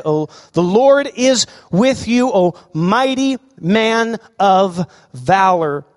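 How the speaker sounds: slow, ringing proclamation of the angel; angel's greeting. Acted. Angel greeting Gideon in the winepress, slow and proclaiming. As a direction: announce it slowly like a herald from heaven. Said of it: "the angel of the Lord appeared to him and said".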